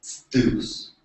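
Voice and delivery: Zeus opened with a hissed s-t cluster. Shown as a demonstration. Lecturer showing the T S option, Zeus as "stoos". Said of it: "or a T S".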